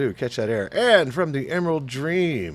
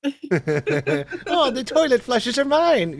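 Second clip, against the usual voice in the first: high hammy villain voice; a squeaky cartoon baddie gloating; 12 semitones higher, 5 dB louder, much slower than usual. Mocking villain voice.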